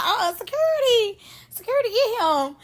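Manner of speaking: high, frantic call for security; a hammed-up yelp for help; imitating someone crying out for security; mock panicked call. The speaker calling for security.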